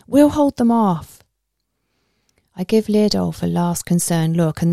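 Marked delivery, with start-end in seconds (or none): 0.1-1.2 raised, louder urging voice; urgent call. A narrator's reading. Leodolf promises to hold off skinwalkers, urgent call. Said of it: "Leodolf urges".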